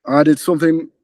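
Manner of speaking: put-on a rough try at a Geordie accent; lightly put-on Geordie accent. Retelling John's words in a light Geordie accent. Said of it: "Apologies for my Geordie accent".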